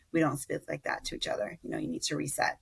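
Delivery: steady the voice and set the boundary gently; calm and clear. Retold or imitated. Mother correcting her four-year-old, calm and clear. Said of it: "saying to him clearly and calmly".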